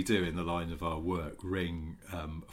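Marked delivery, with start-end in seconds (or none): none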